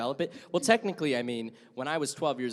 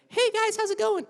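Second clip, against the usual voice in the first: put-on much higher, squeaky young gamer; high kid voice; 6 dB louder than usual. Shown as a demonstration. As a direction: chirp it like a twelve-year-old. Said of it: "it was a lot higher".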